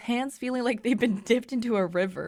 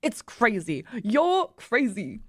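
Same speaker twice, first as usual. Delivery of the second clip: put-on accusing, in a loose German accent; attempted German accent; slower than usual. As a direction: throw back the accusation in a rough German accent. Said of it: "I can't do a German accent".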